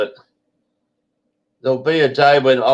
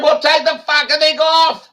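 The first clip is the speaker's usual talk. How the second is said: retold telling-off; 4 dB louder than usual. Retold quarrel with masked woman.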